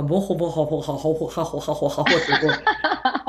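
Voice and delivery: laughing, slow mock-German babble. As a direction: imitate how German sounds to her ear. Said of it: "ドイツ語はなんか". (笑いながらドイツ語の真似)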